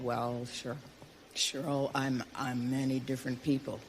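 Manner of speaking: a low soft murmur, lightly done; low mock Jack. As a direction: drop low and quiet as Jack.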